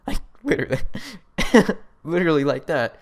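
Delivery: high-pitched, real laughing voice. Real, not acted. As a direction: break into laughter while talking. Laughs at own re-enacted denial.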